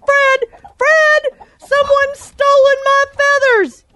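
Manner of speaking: calling Fred. Acted. Hen calling the farmer.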